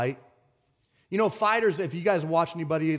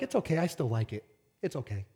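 mock coddling. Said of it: "do you coddle and be like".

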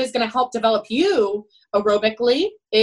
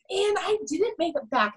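high, softer mock-crying voice; imitating tearful lament; 8 semitones higher, 4 dB quieter than usual. Crying swimmer who missed finals, imitated tearful lament. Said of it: "so people don't see he's crying".

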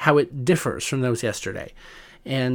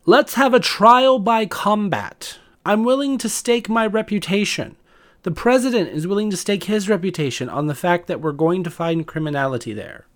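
mocking Giuliani; 4 semitones higher than usual. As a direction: ham up a blustering rally speech. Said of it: "a quote that I'm going to read".

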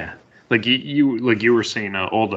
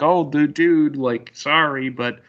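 apologetic dude; 5 semitones higher than usual. Retold or imitated. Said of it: "Techno's all like".

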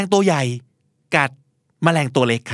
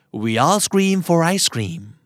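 very slow, each word spaced out; slow drill; 2 semitones higher, much slower than usual. Shown as a demonstration. Teacher slowly modelling the rhyme for listeners, spaced out. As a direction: lay every word down slowly. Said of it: "พูดไปห้าครั้งนะครับ".

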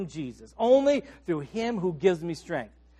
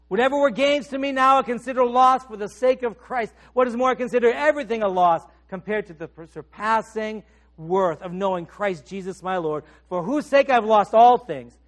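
rising fervent recitation; 5 dB louder than usual. Acted. Preacher reciting Paul to the congregation, fervent and louder. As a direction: build the verse to a climax. Preacher builds scripture to climax.

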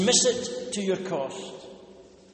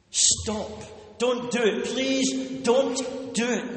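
slow anguished begging, don't stressed; pleading; 3 semitones higher, slower than usual. Acted. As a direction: beg her not to do it. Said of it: "There is anguish in the pleading voice".

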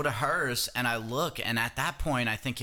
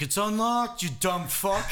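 mocking retort; 7 semitones higher, slower than usual. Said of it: "he's like".

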